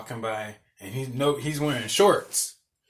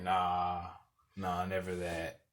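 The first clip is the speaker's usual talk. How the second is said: low, hushed brush-off; subdued denial; 7 semitones lower, 10 dB quieter, slower than usual. Retold or imitated. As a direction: imitate a friend quietly denying it. Voices roommate's subdued denial.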